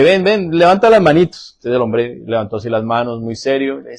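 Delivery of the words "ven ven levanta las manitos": coaxing pastor. Retold or imitated.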